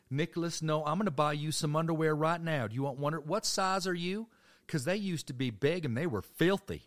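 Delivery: high, loud insisting grandma. Retold or imitated. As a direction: shout across the store like a stubborn grandma. Grandma insisting loudly in store.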